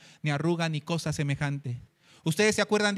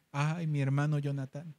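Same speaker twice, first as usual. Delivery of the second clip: low, tender sigh; welling love; 4 semitones lower, 4 dB quieter than usual. Acted. David sees Jonatán in the son's face, loving sigh. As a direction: let affection well up gently. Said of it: "surge de él naturalmente el amor".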